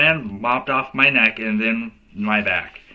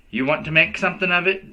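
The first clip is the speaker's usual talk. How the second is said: lightly voiced little boy playing tough; a kid puffing himself up, mock tough; big tough guy voice; 7 semitones higher, faster than usual. A narrator's reading. Little boy acting tough to the girls, mock tough guy voice. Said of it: "in his big tough guy voice".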